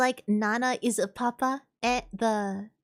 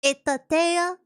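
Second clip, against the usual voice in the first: loud, emphatic put-on Russian voice; Russian accent; 2 semitones higher, 6 dB louder, slower than usual. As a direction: introduce them with a hammed-up Russian accent. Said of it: "hear my Russian accent".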